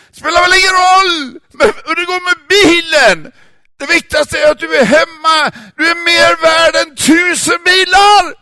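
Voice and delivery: high, loud, crying father; words tumbling out through tears; tearful outburst. Acted. Father weeping with relief. (pappa gråter högt av lättnad)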